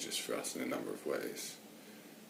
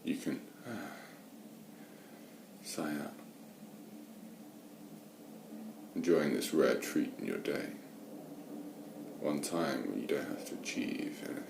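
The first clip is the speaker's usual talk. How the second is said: unhurried meditation guidance with long pauses; guided meditation; 3 semitones lower than usual. Real, not acted. Meditation teacher settling listeners into watching the breath, guided meditation. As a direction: guide listeners gently, leaving space between phrases.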